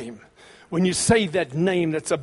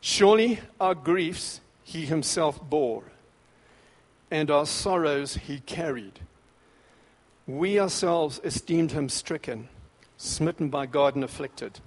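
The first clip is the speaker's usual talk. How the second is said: scripture reading. Acted. Pastor reading Isaiah to the congregation, slow and solemn. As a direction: lay each phrase down gently, slowly.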